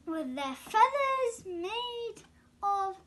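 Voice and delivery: giggling through the words; amused chuckle while finishing; laughing. Real, not acted. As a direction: laugh as you say it.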